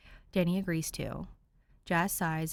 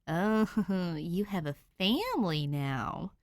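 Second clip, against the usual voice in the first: crowing with glee; much slower than usual. Acted. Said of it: "Danny crows".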